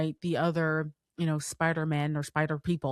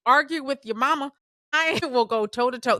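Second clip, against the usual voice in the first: high, raised, fired-up declaration; emphatic insistence; 8 semitones higher, 5 dB louder, faster than usual. Real, not acted. Fan defending the best Spider-Man movie, emphatically insistent. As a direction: stake the claim with full conviction.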